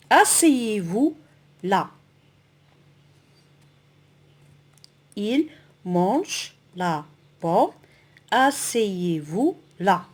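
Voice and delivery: slow teacher reading example sentences; lecture du corpus. Shown as a demonstration. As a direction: stretch the words, with pauses between them. (lecture lente, mots bien détachés)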